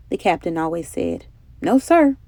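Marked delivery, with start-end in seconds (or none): 1.6-2.2 Isaac firmly objecting, a little louder; firm declaration. A narrator's reading. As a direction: cut in with a firm no. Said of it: "Isaac would declare".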